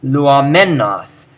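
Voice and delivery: "Luomennos" slow, leaning on MEN; stress on men. Shown as a demonstration. Teacher showing it's going on right now, stressed MEN. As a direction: draw out "luoMENnos". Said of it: "lets you know that it's going on right now".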